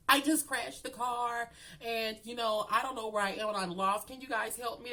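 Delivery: high-pitched mock helplessness; helpless victim act. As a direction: play lost and helpless for the officer. Playing helpless to the police.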